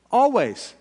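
high, loud climax; climactic shout. Acted. Preacher building to his point, shouting it. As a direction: ring out the last word.

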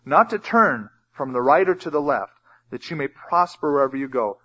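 emphatic, measured Bible reading; scripture reading. Acted. Preacher reads God's command to the congregation, emphatic scripture reading. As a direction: read scripture out, landing on key words.

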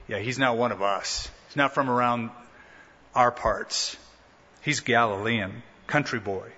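low, offhand dismissal; dismissive. Acted. Those in Jerusalem on a Galilean's accent, dismissive. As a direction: brush him off as an outsider. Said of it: "those in Jerusalem would go, "Pff".

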